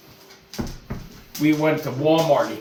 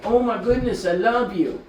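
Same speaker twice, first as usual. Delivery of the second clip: high, doting coo; gushing pet talk; 7 semitones higher than usual. Real, not acted. Owner telling his dog he loves him, high doting gush. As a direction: gush over the dog in a raised voice.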